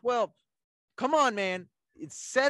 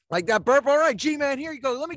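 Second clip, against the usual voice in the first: just burped, a bit loud; after chugging; 5 semitones higher, 6 dB louder than usual. Real, not acted. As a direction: talk right after a big gulp. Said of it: "Great burp".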